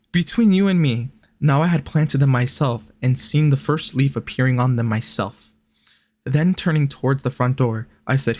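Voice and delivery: even-paced literary read; reading aloud. A narrator's reading. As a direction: read the old letter out evenly. Reads the letter aloud.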